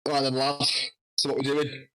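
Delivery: casual matey Wigan accent, lightly imitated. Wrestler greets nervous newcomer backstage, light Wigan accent. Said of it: "his big Wigan accent".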